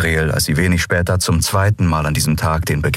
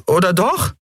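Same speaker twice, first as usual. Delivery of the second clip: put-on much higher, unsure young voice; high boyish voice; 13 semitones higher than usual. A narrator's reading. Miko looking around for help, unsure. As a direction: ask it small and worried.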